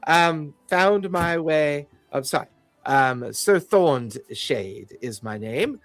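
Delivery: a lightly voiced condescending fey noble; polite, fussy and faintly hesitant officialdom; haughty fey official. GM as fey security chief greeting the party, lightly haughty. GM voices Sir Thorned Shade.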